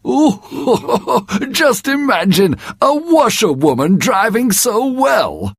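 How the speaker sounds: high, giggling self-satisfied Toad; laughing Toad. Acted. Toad gloats about his driving, laughing in a high voice. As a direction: chuckle through it, very pleased.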